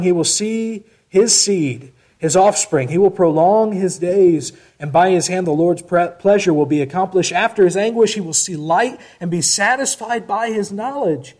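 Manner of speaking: emphatic scripture reading. Acted. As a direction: read the verse out strongly to a congregation. Reads scripture to congregation.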